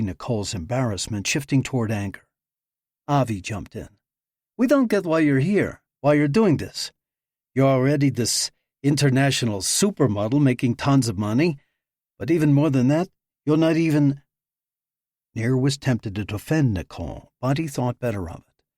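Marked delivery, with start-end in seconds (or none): 4.6-14.2 challenging. Acted. Avi challenges Nicole.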